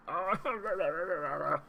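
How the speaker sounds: high, drawn-out wordless cry; frustrated wail. Real, not acted. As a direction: wail at the missed chance. Reacts to a missed chance.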